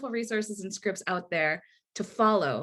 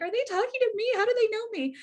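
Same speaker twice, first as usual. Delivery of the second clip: much higher, mock-astonished inner voice; stunned disbelief; faster than usual. Teacher recalling her amazement at an article that called her out, in a high, mock-astonished voice. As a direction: play it like being caught out by an article. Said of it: "I read this and I'm like".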